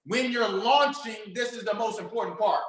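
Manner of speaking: LAUNCHING drawn out slowly, falling; slow emphatic stress. Shown as a demonstration. Coach stressing to students, slow and deliberate.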